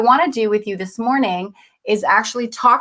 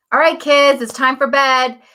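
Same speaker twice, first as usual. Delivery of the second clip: louder, higher parent call to bed; parent calling kids; 3 semitones higher, 4 dB louder than usual. Retold or imitated.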